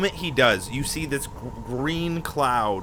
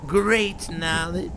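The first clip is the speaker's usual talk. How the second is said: portentous storyteller; 2 semitones higher, 4 dB quieter than usual. Acted. Character tells of the orb's knowledge.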